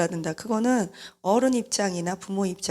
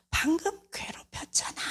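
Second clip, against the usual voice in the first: whispered retort; 9 semitones higher, 5 dB quieter than usual. Retold or imitated. Sulky teen retort to mother.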